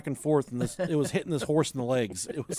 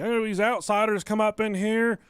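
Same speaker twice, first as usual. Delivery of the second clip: the offended local ranting about outsiders, a bit higher; hillbilly rant; 5 semitones higher than usual. Retold or imitated. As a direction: ramble like a blubbering local. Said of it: "And he said".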